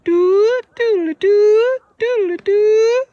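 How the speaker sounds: high, hooting bird call; loon call. Pretend. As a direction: hoot like a loon on a lake. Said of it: "is that a loon?".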